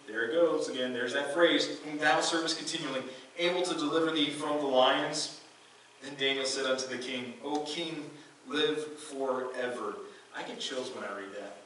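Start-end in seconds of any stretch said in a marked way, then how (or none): 1.8-5.4 louder, stress on "thou" in "whom thou servest continually"; lamenting cry. Acted. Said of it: "he cried with a lament voice". 7.4-10.0 very slow, drawn-out "live forever"; solemn reply. Acted. Daniel answers the king.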